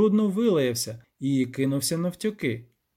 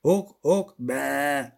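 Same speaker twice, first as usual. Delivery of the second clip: goat bleating; much slower than usual. A narrator's reading. Goathorn answers the poet, bleating. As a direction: grunt then bleat like a goat. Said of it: "забекав Козиріг".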